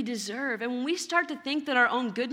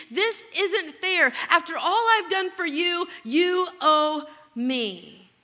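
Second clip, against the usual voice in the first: slow, higher, louder aggrieved protest; resentful complaint; 3 semitones higher, 4 dB louder, slower than usual. Retold or imitated. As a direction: press each word like a wronged son. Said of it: "He's saying".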